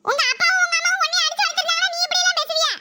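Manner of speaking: put-on cheeky boy voice. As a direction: sass the grandfather like a bratty boy. Boy talks back to grandfather.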